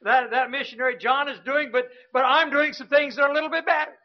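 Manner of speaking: quick, lightly voiced self-satisfied pastor; imitating pastor. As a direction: rattle it off, mildly smug. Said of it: "he would say".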